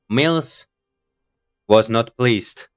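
slow, deliberate game narration; story read-out. Acted. Voicing the game's story text for viewers, slow read-out. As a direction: read it out slowly, word by word. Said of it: "let's back for our voice acting".

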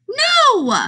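high, bright emphatic no. Acted. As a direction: exclaim it to the kids, pitch leaping up. Playful answer to silly question.

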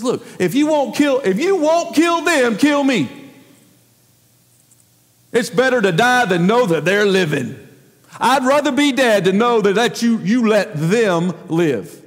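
preacher acting out a resentful prophet; Jonah yelling at God. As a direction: voice Jonah's bitter complaint to God. Jonah demands God kill him.

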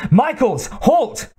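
high-pitched screech to halt someone; screeched command. A narrator's reading. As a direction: screech the order, pitch leaping up. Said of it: "screeched Kozlowski".

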